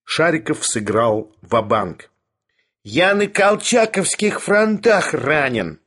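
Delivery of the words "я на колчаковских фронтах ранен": high, slow, defiant bark. A narrator's reading. Sharikov stakes everything on his lie, barking. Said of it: "пролаял он".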